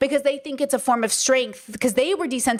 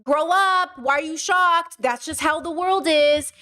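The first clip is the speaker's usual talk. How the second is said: higher-pitched mock scolding; dismissive shaming; 3 semitones higher than usual. Voicing patriarchy shaming chat for being shocked, dismissive. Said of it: "justification of patriarchy to say".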